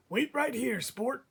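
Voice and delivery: barber. Acted. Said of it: "he patted my head and said".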